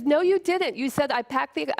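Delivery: husband denying it mid-argument, indignant; flat denial. Retold or imitated. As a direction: shut her down, indignant. Husband denies, quarrel escalates.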